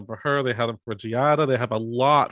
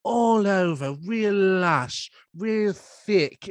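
higher, sultry TV chef voice; mock-seductive, lingering over the food words; playful sexy cooking-show parody; Nigella Lawson; 4 semitones higher than usual. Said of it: "She's like".

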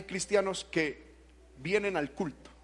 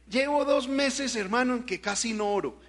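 complacent churchgoer; 3 semitones higher than usual. Retold or imitated. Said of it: "muchos cristianos que dicen".

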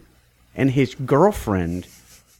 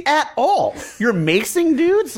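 high, incredulous rebuke; retold indignation; 10 semitones higher than usual. Bystander scolding a man who maced people, indignant. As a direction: challenge him with raised pitch. Teller refusing to let him quit.

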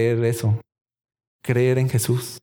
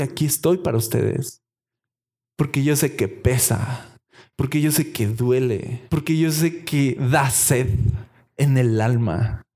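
tender Jesus; 3 semitones lower than usual. Acted. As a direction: soothe someone who is hurting. Voicing Jesus comforting the hurting.

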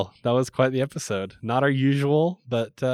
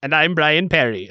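imitating radio voice; 2 semitones higher, 6 dB louder than usual. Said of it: "do I have to do the voice too".

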